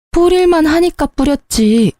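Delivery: high, cutting comeback; wife throwing his complaint back at him; sharp retort. Acted. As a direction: fire it back at him, pitch up. Wife snaps back at husband.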